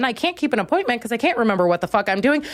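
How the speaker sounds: normal talking voice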